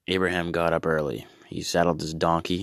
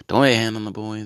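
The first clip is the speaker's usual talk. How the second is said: louder, commanding order; police-like angel; 4 semitones higher, 5 dB louder, faster than usual. Acted. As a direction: bark it like a cop. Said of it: "the angel or the police?".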